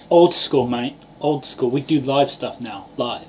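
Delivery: lightly cockney accent. Real, not acted. Podcaster boasting about doing live stuff, in cockney. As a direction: say it in casual cockney. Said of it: "You sounded so cockney then".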